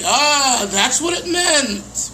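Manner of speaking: mild delighted aha; aha moment. Retold or imitated. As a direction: savor the discovery. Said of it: "and you'll say".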